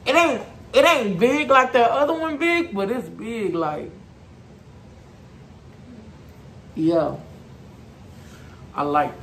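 muffled through fabric; through a knit mask. Real, not acted. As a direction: face covered by balaclava. Seen 0: Distressed knit balaclava covers the whole face and mouth throughout the words.

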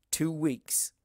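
an ominous whisper; whispered threat of the coming date; whispered warning. Acted. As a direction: breathe it like a threat. Ominous reminder.

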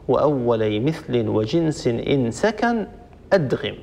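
verse recitation. Shown as a demonstration. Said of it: "هنا رحمه الله يقول".

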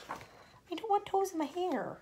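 high, slow, squeamish whine; mock horrified squeal; squeaky disgusted voice. Shown as a demonstration. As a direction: say it like a grossed-out child. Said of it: "reader reacts twice".

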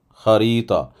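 Harita with a throaty h and a stretched middle a; long middle vowel. Shown as a demonstration. Teacher to students, elongation demonstrated. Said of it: "Ortasında bir de uzatma var".

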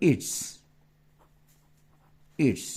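It's said as one short syllable; contraction demo. Shown as a demonstration. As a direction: say It's with no gap after it. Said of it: "contraction করলে কি হবে?". (it's স্পষ্ট উচ্চারণ)

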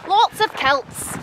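slow, stretched Scottish "kilts"; drawn-out attempt at a Scottish accent. Shown as a demonstration. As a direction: practise Scots with the vowel in "kilts" opened towards "kelts". Practising Scottish accent on the phrase.

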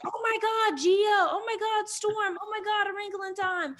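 high, loud gushing fan squeals; starstruck fans. Retold or imitated. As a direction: imitate fans squealing over a star. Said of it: "young people coming up and being like".

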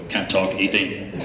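slow, lightly voiced cartoon dad with a laugh; Homer Simpson impression. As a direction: drag it out like a lazy cartoon dad mid-snack. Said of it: "I usually just do my Homer Simpson impression".

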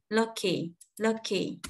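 Lucky with the K carried straight into a short ee; K linked into Y. Shown as a demonstration. Teacher models Lucky for learners, K linked onward. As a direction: link the K to the final vowel in Lucky. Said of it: "Kéo cái âm K này qua âm y luôn".

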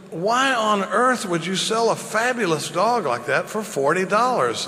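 drawn-out, baffled question; incredulous. Acted. Buyer asks farmer why sell so cheap, incredulous. Joke buyer stunned by low price.

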